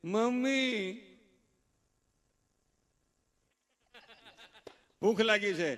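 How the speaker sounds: put-on slow, drawn-out child begging mother; hammed-up hungry kid whining; whiny child. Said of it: "છોકરું એમ કે". (ભૂખ્યા બાળકની નકલ, લંબાવીને રડમસ)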